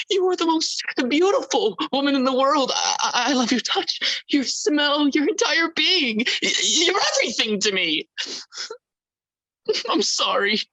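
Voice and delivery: desperate, high pleading; begging an ex back. Acted. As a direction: beg her not to go. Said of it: "pleading with partner not to leave".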